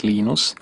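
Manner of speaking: "Linus" as LEE-nus, Finnish style; Finnish pronunciation. Shown as a demonstration. Programmer showing how to say his name, "Linus" the Finnish way. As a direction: Finnish "Linus", ee vowel and rising end. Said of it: "When I speak Finnish".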